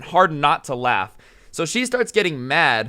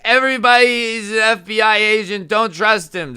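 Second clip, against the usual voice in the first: high, loud Karen yell; imitated frantic warning; 7 semitones higher, 6 dB louder than usual. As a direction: cry out to warn everyone around. Karen warns bystanders loudly.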